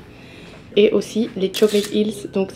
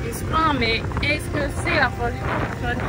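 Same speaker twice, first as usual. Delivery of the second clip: mock dramatic; 6 semitones higher, 3 dB quieter than usual. Mocking the complaint.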